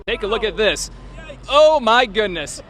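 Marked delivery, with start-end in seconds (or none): 1.5-2.7 laughing. Real, not acted. Climbing steep hill in Jeep.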